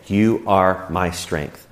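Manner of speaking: slow, deliberate, earnest; slow, earnest prayer of trust; slow sincere prayer. Shown as a demonstration. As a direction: let each word land slowly. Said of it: "and then say".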